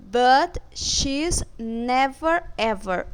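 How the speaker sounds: "never ever" drawn out slowly, each word leaned on; teacher stressing "never ever" for the class. Shown as a demonstration. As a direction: stretch and press "never ever". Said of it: "como se eu quisesse enfatizar".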